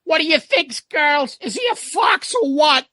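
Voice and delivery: put-on rile up the girls in the audience; Ace voice. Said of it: "And Ace says".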